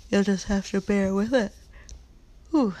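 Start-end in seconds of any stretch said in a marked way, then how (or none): 2.5-2.8 a long open yawn. Real, not acted. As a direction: yawn through the sound. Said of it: "pardon me for that little yawn".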